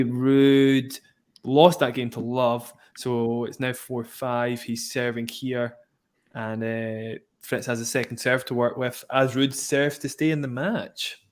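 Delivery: measured tennis commentary, slowing on the score; live play-by-play. Acted. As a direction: call the point like a TV commentator. Play-by-play of the match.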